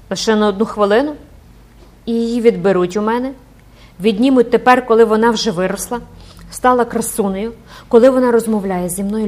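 anguished protest. Acted.

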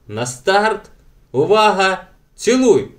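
rising loud high start call; commanding countdown. A narrator's reading. Dag times the kiss, loud countdown. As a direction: call the start like a race official. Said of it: "скомандував Даг".

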